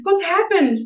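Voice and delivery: high-pitched alarmed question; mock shocked cry, pitch jumping up; freaking out, retold. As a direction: act out a friend's panicked query. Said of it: "was freaking out as well".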